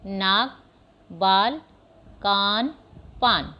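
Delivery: the words read fast one after another; quick fluent reading. Shown as a demonstration. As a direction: read the list briskly, like a fluent reader. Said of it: "जल्दी से पढ़ोगे". (जल्दी-जल्दी पढ़े गए शब्द)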